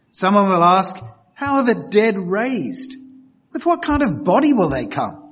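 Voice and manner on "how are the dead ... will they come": doubting, incredulous, skeptical tone, sing-song. Reading a verse aloud as a doubter would ask it: mock-skeptical questioning. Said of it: "hear this verse in a very skeptical tone of voice".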